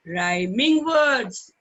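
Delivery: Rhyming words drawn out slowly; slow drill. Shown as a demonstration. Teacher has children repeat the term, slowly. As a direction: spell it out slowly for the class. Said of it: "What they are called?".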